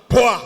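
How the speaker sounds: short, loud "poah" of a slap; imitated slap sound. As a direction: mimic the smack with a sudden loud burst. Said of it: "He gave me a dirty slap".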